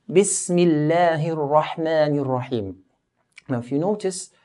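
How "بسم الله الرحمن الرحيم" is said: recited. Shown as a demonstration. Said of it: "we find the statement".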